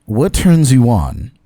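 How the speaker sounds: slow, lightly voiced interview host; James Lipton impersonation. Host asks guest a rapid-fire question, slow impersonated interviewer. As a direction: draw the question out like a formal interviewer. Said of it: "It's my best James Lipton impersonation".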